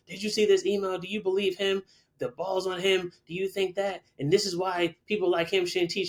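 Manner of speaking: high-pitched, outraged retelling of the advisor; indignant accusation. Retold or imitated.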